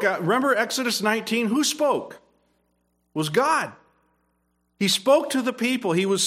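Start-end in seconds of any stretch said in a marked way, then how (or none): 1.5-2.1 high emphatic question. Shown as a demonstration.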